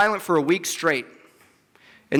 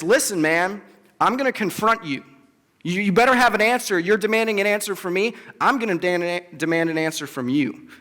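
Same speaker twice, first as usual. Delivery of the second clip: confronting. Retold or imitated. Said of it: "God confronts Job".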